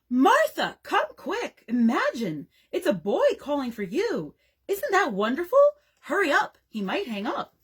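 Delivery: high, excited mock shout; desperate shout. A narrator's reading. Brother calling his sister to the phone, desperate shout. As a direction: call out urgently with big pitch swings. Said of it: "Frank would shout desperately".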